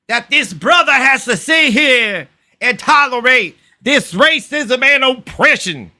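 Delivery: high, theatrical indignation; mock outrage. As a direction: declaim it like an offended activist. Hammed-up speech of outrage.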